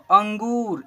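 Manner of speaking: अंगूर read clearly as ang-goor; model pronunciation. Shown as a demonstration. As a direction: sound the nasal ang, then long goor in अंगूर. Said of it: "ऐसे पढ़ेंगे". (अंगूर का साफ़ उच्चारण, अं-गूर)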